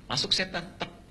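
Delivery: usual speaking voice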